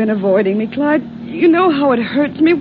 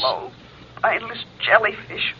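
soft, lower haunting echo; remembered taunt; 4 semitones lower, 8 dB quieter than usual. Acted. Girlfriend's words ringing in the guilty man's ears, softly taunting. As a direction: let the insult hang like a distant memory. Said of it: "Ellen's words ring in his ears".

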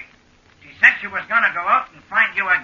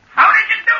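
much higher, amazed question; astonished; 13 semitones higher, 4 dB louder than usual. Acted. Friend asking the giant how, astonished and high. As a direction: squeak it out in disbelief.

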